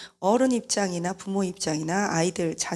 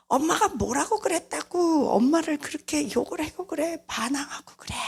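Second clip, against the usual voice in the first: mother yelling back; 8 semitones higher than usual. Retold or imitated. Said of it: "또 소리를 질러요".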